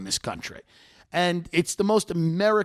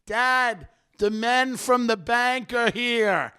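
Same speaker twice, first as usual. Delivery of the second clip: retold yelling at dad; 6 semitones higher, much slower than usual. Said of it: "screaming in his father's face".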